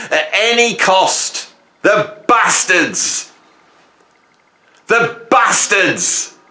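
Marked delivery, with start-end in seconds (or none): 1.8-3.3 angry. Real, not acted. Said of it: "I've got all angry now". 4.9-6.4 angry. Real, not acted. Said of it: "I've got all angry now".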